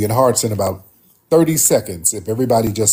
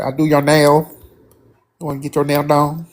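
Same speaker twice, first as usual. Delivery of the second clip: higher-pitched mock Asian accent; imitated caller's accent; 5 semitones higher, 4 dB louder than usual. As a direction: imitate an Asian nail-salon worker's accent. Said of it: "it kinda had that accent".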